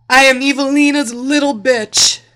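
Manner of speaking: high, full-volume desperate shout; all-out yell of surrender; screamed submission. A narrator's reading. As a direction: scream it as loud as possible. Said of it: "She screamed as loud as she could".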